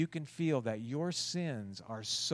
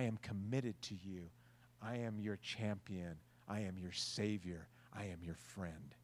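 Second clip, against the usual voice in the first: reassuring God; 3 semitones lower than usual. Acted. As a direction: comfort them gently like a loving father. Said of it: "What is that message from God?".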